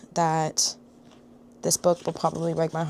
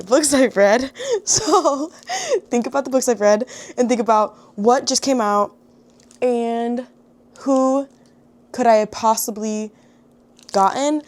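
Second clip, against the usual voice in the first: laughing; 5 semitones higher, 5 dB louder than usual. Real, not acted. Teasing viewers to guess book.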